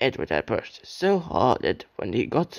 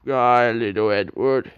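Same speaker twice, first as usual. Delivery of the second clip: smug farewell; 4 dB louder than usual. Acted. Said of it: "said Gordon as he puffed away".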